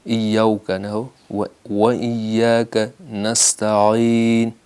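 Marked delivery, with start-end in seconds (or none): 0.0-0.7 ایاک said with an Urdu o like vowel; wrong pronunciation. Shown as a demonstration. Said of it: "و نہ ہو اردو والا". 1.3-4.5 و ایاک نستعین slow with a clear Arabic واو; careful tajweed chant; correct slow recitation. Shown as a demonstration. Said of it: "واو پر دقت کیجیے".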